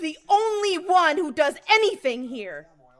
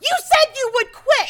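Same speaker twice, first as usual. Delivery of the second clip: angry shout; 9 semitones higher, 6 dB louder than usual. Acted. Wife shouting back in quarrel.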